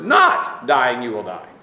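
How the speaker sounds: a lightly voiced, sly Satan; Satan's twist. Teacher voicing Satan contradicting God, low and slow. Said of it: "when Satan contradicts this".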